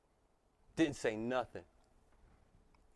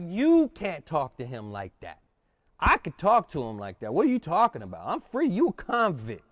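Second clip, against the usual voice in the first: louder, rising defiant retort; heated comeback; 4 dB louder than usual. Retold or imitated. Speaker yelling back at the inmates, heated and defiant. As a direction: fire it back at them, defiant.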